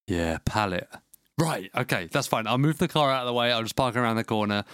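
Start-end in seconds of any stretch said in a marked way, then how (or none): 0.1-0.9 terse delivery guy. Retold or imitated.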